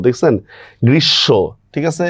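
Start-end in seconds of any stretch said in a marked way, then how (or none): 0.9-1.3 গ্রীষ্ম as "grish-sho", m silent; doubled consonant. Shown as a demonstration. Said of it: "উচ্চারণ দ্বিত্ব হচ্ছে".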